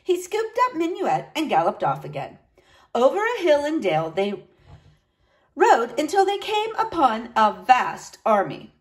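lively storybook reading; story narration. A narrator's reading. Teacher reading a knight's tale to children, animated narration. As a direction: read it expressively for children.

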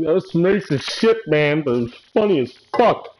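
lightly voiced laughing viewer; imitating a viewer. Streamer voicing chat, a high mock viewer.

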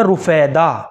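رفیدہ said slowly as "ru-fay-da", u on the first R; رفیدہ said slowly, first syllable "ru"; careful name demo. Shown as a demonstration. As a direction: spell out رفیدہ syllable by syllable, R with pesh. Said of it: "را کے اوپر پیش کے ساتھ رفیدہ".

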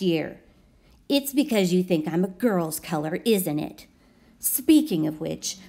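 sassy pink crayon. Acted. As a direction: tell the kid off like a sassy aunt. Pink crayon's scolding letter.

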